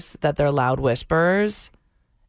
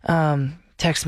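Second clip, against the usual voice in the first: drug dealer voice; slower than usual. Retold or imitated. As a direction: mutter it like a sketchy dealer. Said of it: "felt like doing a drug deal".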